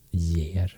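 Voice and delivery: year said "yeh-r" with a clear y before an e; old y-sound pronunciation. Shown as a demonstration. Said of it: "you still used the y sound before the e".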